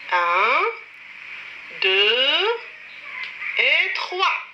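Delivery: counting aloud. Shown as a demonstration. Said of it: "Comme ça".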